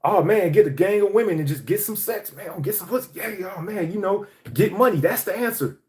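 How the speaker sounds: lightly mocking bravado; mocking old mindset. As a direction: parody your younger self, lightly. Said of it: "I thought the answer was".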